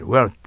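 wealth said loud, with no vowel after th; tongue-tip th. Shown as a demonstration. Teacher modelling the ending for students, tongue-tip th. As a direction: punch out wealth, tongue tip bitten at the end. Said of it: "ベロの先噛むだけでいい".

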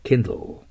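Kindle ending on a dark L, almost "kin-doh"; final L demo. Shown as a demonstration. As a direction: let the end of Kindle melt into a dark L. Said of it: "最後、Lの発音ですよ".

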